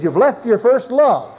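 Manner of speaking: high, loud, slow preacher's charge; emphatic rebuke. Acted. Preacher voices Jesus charging believers who left first love, emphatic rebuke. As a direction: deliver it as a ringing reproach.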